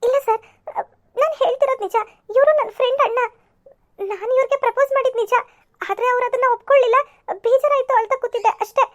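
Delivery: mildly crying, halting confession; tearful explanation. Acted. Girl tearfully tells the policeman she was rejected. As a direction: explain through sniffles, ending in a half laugh.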